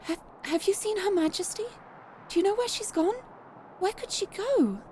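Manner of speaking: flustered White Rabbit. Acted. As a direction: play a fretful little rabbit. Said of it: "attempting to do some voice acting".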